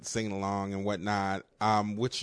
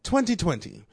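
Barbara Walters impression; 7 semitones higher, 4 dB louder than usual. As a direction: announce it like Barbara Walters opening the show. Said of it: "She would do this weird ass pause".

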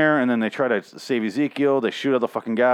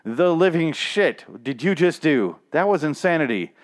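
mock shocked Ezekiel; 5 semitones higher than usual. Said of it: "Ezekiel's like".

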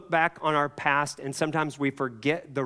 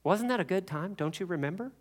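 higher, lightly voiced tempter; acted enticing voice, pitched up; coaxing devil; 5 semitones higher than usual. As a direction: coax sweetly, like a devil luring someone back. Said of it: "But the devil says".

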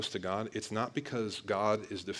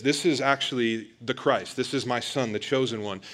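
louder, ringing declaration from the Father; proclaiming voice of God; 7 dB louder than usual. Retold or imitated. Preacher voicing God the Father breaking in, proclaiming loudly. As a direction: announce it with full authority. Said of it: "God the Father breaks in and says".

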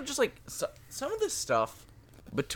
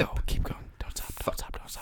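whispering; 11 dB quieter than usual. Real, not acted. Urging in a whisper.

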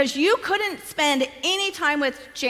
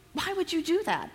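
incredulous husband; 5 semitones higher, 5 dB quieter than usual. Retold or imitated. Husband questions her in disbelief.

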